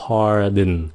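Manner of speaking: PARDON in two clear syllables, "par-din"; careful "pardon", second syllable like "din"; careful model. Shown as a demonstration. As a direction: separate "pardon" with a light "din" ending. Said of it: "Nghe kỹ nữa nha".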